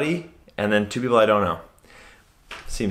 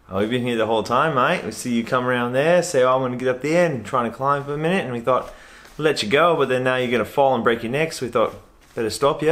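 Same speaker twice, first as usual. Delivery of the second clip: easygoing Australian officer explaining himself; a hint of an Aussie policeman; casual mock-Australian police voice; lightly voiced Australian cop.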